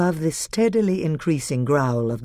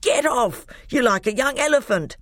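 higher, indignant complaint; angry dwarf; 9 semitones higher than usual. A narrator's reading. Trumpkin crushed under Edmund, angry indignant voice. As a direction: grumble at the weight on top of you. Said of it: "came an angry voice".

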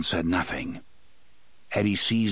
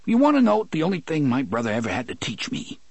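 hitching, tearful; 7 semitones higher, 3 dB louder, faster than usual. Acted. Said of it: "His voice was hitching and thick with tears".

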